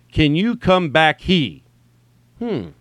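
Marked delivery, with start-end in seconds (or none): 0.1-1.6 drawn-out, emphatic "come back, he?"; puzzled misreading. Acted. Comic imagining a friend reading his typo at home, puzzled misreading. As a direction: read "he" as a separate, puzzling word. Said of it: "you would go, here's you in the house".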